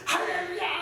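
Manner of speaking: full-throated shout of praise; shouted hallelujah. Shown as a demonstration. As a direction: yell it with full force. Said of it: "소리 지르면서 꽥꽥 지르면서".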